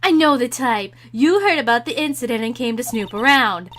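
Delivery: loud, hammed-up old lady rant; badly faked old guard, rattling off a scolding. Old security lady berates nosy youths, loud ranting old voice. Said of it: "I don't know how to do".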